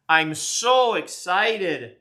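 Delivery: slow, drawn-out gushing; real gleeful gush; excited. Real, not acted. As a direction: savor each word.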